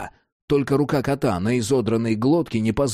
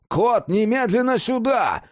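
high, insistent calling order; urgent command; 10 semitones higher than usual. A narrator's reading. Jack summons Cat away from danger, urgently commanding. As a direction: call him in, brooking no delay.

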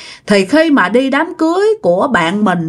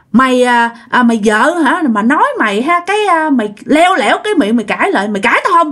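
retold yelling husband; 2 semitones higher than usual. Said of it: "mới nghe tiếng ổng chửi nha".

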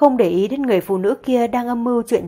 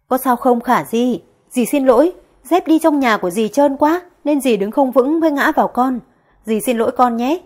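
fake innocent apology; 3 semitones higher than usual. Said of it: "giả vờ ngây thơ vô tội".

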